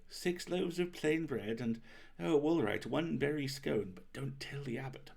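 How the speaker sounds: lightly voiced priest, slow, ending in a hushed aside; mild priest giving in, then whispering; priest's voice. Baker quoting the parish priest ordering bread, a touch sly. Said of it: "The parish priest said".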